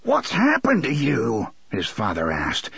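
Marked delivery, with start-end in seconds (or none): 0.0-1.5 plaintive. Acted. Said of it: "his tone was almost plaintive".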